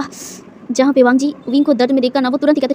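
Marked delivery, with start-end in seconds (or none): 0.0-0.7 soft unvoiced pained groan; a quiet breathy ah of back pain. A narrator's reading. Injured Wing groans from back pain, softly. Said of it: "पेन से ना कराहते हुए".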